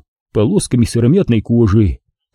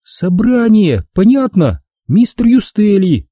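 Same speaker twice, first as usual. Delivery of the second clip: Angela whispering; 10 semitones higher, slower than usual. Acted. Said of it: "шепнула стражу ворот".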